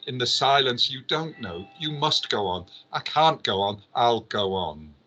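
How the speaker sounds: lightly performed prose monologue, driving on phrase by phrase; dramatic literary reading. Acted. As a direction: read out the novel passage with rhythmic, insistent phrases. Reads Beckett passage aloud dramatically.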